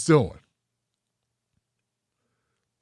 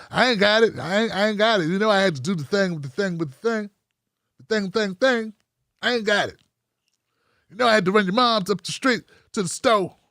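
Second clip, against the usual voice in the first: put-on broke boyfriend excuses. Playing a broke boyfriend making excuses to his girlfriend, mumbling. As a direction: dodge it, trailing off on the thing thing.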